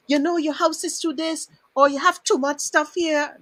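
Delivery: lightly voiced critical neighbour; mock critic. Host imitating critics of her cluttered house, mock scolding.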